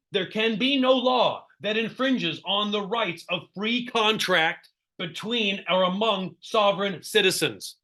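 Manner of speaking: slow, deliberate read-out; reading aloud. Real, not acted. Trainer reading a constitutional rule to agents, deliberate read-out. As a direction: read it out slowly, weighing each phrase. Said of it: "Let me read this".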